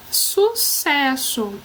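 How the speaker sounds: sucesso drawn out as one word; slow whole word. Shown as a demonstration. Teacher announcing the next word, sucesso slow and whole. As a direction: say sucesso slowly and carefully. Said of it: "Penúltima palavra".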